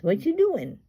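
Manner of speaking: high singsong parrot question; imitating parrot talk. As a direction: ask it high, like a talking bird. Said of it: "And he says".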